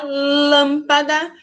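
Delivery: "lâmpada" with LÂM held and strong; stress on first syllable. Shown as a demonstration. Teacher asking which syllable is strongest, stress on first. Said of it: "quem é a mais forte?".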